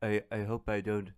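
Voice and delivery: nervous hesitant mock Scissorhands; timid Edward Scissorhands.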